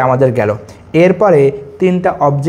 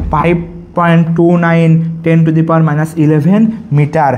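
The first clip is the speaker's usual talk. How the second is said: very slow, spelled-out number; teacher dictating to class, slow; slow dictation; much slower than usual. Shown as a demonstration. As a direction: dictate the value slowly for notes. Dictating a constant to students.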